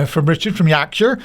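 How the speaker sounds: a light, mock Yorkshire accent on Richard's name; hint of Yorkshire, self-consciously bad; terrible Yorkshire accent. Podcast host briefly imitating the Yorkshire guest, mock Yorkshire accent. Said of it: "That's my terrible Yorkshire accent".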